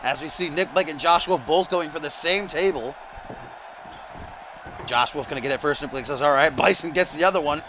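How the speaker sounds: lively wrestling commentator; play-by-play. Pretend. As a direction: call the match as it unfolds.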